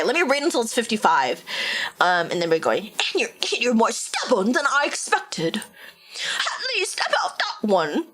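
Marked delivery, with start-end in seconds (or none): 2.9-8.1 put-on valley girl. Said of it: "Valley Girl".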